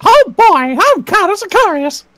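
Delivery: lightly voiced cheery cartoon mouse; a hint of Mickey introducing himself; playful, barely shifted Mickey impression. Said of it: "I love doing that guy as a Mickey".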